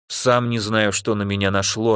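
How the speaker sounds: ordinary delivery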